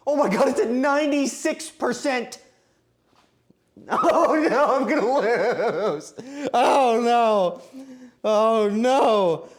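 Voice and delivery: high, loud, drawn-out despair; panicked wailing. Real, not acted. Baker sees ninety-six percent and expects to lose, loud wailing. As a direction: wail it out in comic panic.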